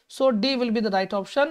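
stretched out, each word drawn slowly; slow announcement. Shown as a demonstration. Teacher slowly announcing the right option to the class. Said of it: "teacher announces the answer".

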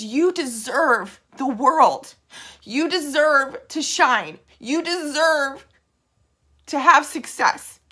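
real tears creeping in as she reassures; getting emotional, slowing and quieting down; tearful. Real, not acted. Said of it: "Sorry, I cried".

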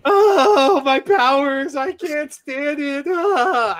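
high, loud, drawn-out southern belle wail; mocking southern Rogue. Mocking movie Rogue to co-hosts in a Southern wail. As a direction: ham up Rogue's Southern whine, slow. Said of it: "she got that southern draw".

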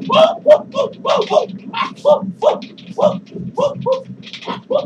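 hyped-up dance whoops; excited whooping. Real, not acted. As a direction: cheer yourself on while dancing. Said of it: "do a dance with my gun".

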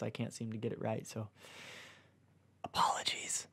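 sheepish whisper; a quiet whispered sorry; whispered apology. Real, not acted. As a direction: murmur the apology under your breath. Reader's sheepish aside.

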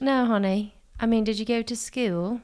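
condescending put-on British accent. Salesperson questioning a customer's schooling, British accent. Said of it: "try to do an accent".

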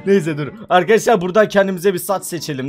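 ordinary talk

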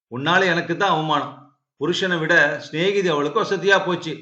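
lightly acted threatening rebuke; mild scolding. Husband berating his wife over her friend's job request, mildly scolding. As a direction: scold her with a touch of anger. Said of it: "ஏன்டா தங்கச்சி இப்படி மிரட்டுற".

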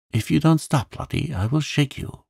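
high-pitched exasperated threat; changed, threatening tone. A narrator's reading. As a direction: snap from soothing into a threat. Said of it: "then in quite another tone".

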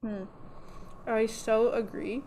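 talking around a needle in the mouth; mumbled through a needle held in the lips. Real, not acted. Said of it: "there's a needle in my mouth".

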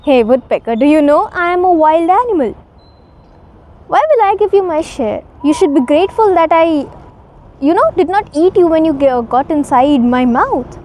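fast, boastful bully of a tiger; smug predator taunting, quickened; gloating tiger. Acted. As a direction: rattle it off, mocking the little bird. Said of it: "The tiger was laughing".

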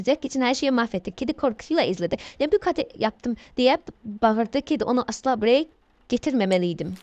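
running storybook narration with little pitch movement; steady read-aloud; story reading. Acted.

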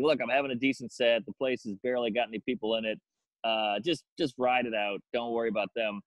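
low, matter-of-fact self-reassurance; calm yourself with a low inner voice; talking himself down. Retold or imitated.

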